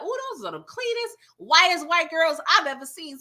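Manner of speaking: impressed mock quote. Man admiring the goods he was shown, impressed. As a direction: play up his admiration with a high "ooh". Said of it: "So he was like".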